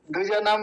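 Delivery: द्विजानाम with a quick short i after द्व. Shown as a demonstration. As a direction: say द्विजानाम without stretching the first vowel. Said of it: "जल्दी से ये बोली जाएगी".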